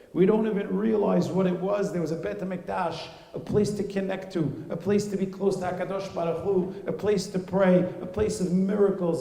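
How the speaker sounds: loud and high, preaching with longing; impassioned lament. Acted. Mother telling her son of the lost Temple, loud and mournful. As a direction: mourn the Beit HaMikdash as if pleading.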